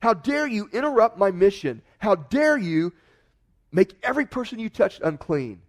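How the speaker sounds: hammed-up angry scolding; indignant rebuke. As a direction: pretend Jesus berating the woman, loud and indignant. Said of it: "Jesus looked at her and he said".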